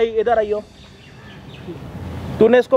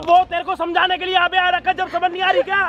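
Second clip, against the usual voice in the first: higher-pitched scolding shout; 5 semitones higher than usual. Acted. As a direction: yell at the father to make him understand. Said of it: "इतना चिल्ला".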